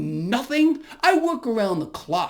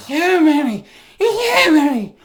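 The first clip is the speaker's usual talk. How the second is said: mocking taunt; 5 semitones higher, 6 dB louder, slower than usual. Mocking the absent leader.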